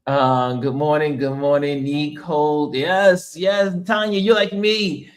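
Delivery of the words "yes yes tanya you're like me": excited agreement. Real, not acted. Agreeing with viewer about sleeping cold.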